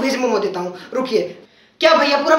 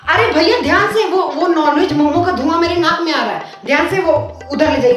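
alarmed protest; 2 semitones higher than usual. Acted. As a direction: wave the smoke away in alarm. Smoke of non-veg momos.

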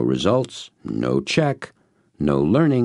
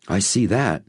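excitedly; 6 semitones higher than usual. A narrator's reading. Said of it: "I said excitedly".

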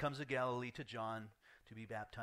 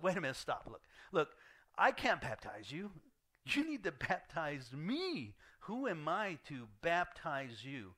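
higher and louder, slowing on the pleas; urgent protest; 4 semitones higher, 4 dB louder than usual. Retold or imitated. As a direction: plead to stop him, pressing. John protesting to Jesus, retold.

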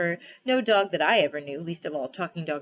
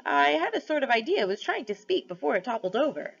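thoughtful badger; 7 semitones higher than usual. A narrator's reading. Badger pondering.

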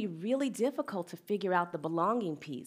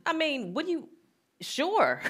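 much higher, scoffing disbelief; mother scoffing at a friend's suggestion, pitched way up; incredulous; 11 semitones higher than usual. Retold or imitated. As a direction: toss it back as if the idea is absurd. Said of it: "I was like".

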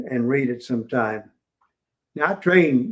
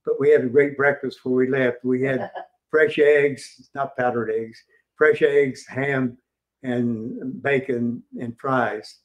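grinning relish. Retold or imitated. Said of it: "a big grin came across his face".

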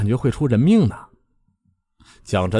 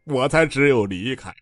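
slow, heartbroken complaining; tearful lament; 3 semitones higher than usual. A narrator's reading. Bai Jianfei telling his junior brother his woes, slow and tearful. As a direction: pour out your sorrow, rubbing your eyes. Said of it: "白剑飞揉着眼睛说得老伤心了".

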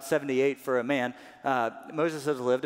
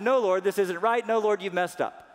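high, loud pleading refusals; protesting Moses; 8 semitones higher, 8 dB louder than usual. Acted. Preacher acting reluctant Moses refusing God, loud and high. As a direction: play Moses begging his way out. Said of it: "he came back and he said".

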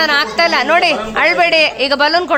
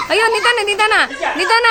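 laughing alarm; 5 semitones higher than usual. Real, not acted. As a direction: squeal through the laugh. Kids running too fast, laughing.

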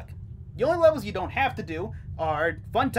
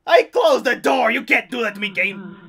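frustrated yelling; 2 semitones higher, 8 dB louder than usual. Real, not acted. Yelling at the game.

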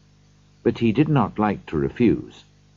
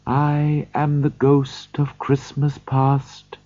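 soft gentle voice; 6 semitones higher, slower than usual. A narrator's reading. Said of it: "in a soft, gentle voice".

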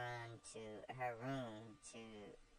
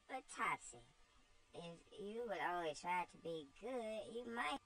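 put-on much higher, gentle pleading child; tearful little Eva; 7 semitones higher than usual. Eva pleads with Topsy, high tearful child's voice. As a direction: coax her kindly, close to tears.

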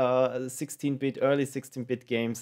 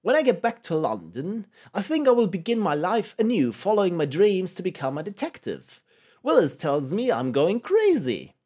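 higher, hammed-up British accent; poor British accent; 5 semitones higher, 3 dB louder than usual. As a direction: read the letter in a badly faked British accent. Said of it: "poor, uh, British accent".

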